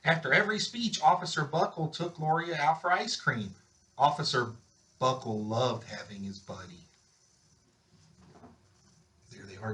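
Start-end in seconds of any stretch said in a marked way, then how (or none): none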